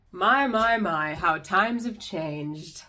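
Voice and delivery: drawn out, fond "my, my" then slow; mock nostalgic sigh. Host to viewers, slowly mocking how times changed. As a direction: savour the irony, slowly.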